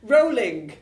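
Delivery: slow drawn-out. Acted. Improv scene, slow alliteration.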